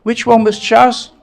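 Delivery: "Which one was Chas?" with "one" stressed, rising at the end; mock puzzled question. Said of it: "I said".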